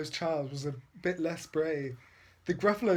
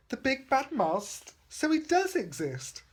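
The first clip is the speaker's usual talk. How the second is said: high, wide-eyed surprise; astonished little Gruffalo; amazed; 8 semitones higher than usual. Acted. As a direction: gasp at the discovery. Child amazed mouse is real.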